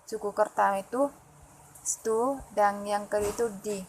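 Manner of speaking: study dipecah jadi stu dan di; syllable split. Shown as a demonstration. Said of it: "dua suku kata". (suku kata stu dan di dipisah)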